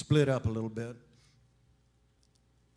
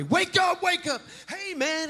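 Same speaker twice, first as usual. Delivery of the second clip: much higher, loud sing-song wake call; mock cheery waker; 5 dB louder than usual. Someone rudely waking a napper, high cheery call. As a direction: chirp it like an annoying morning person. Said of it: "I've just never seen anybody".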